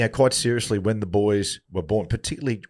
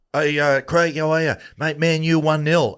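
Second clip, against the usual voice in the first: excited fan; 6 semitones higher, 3 dB louder, slower than usual. Retold or imitated. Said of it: "Someone come up and goes".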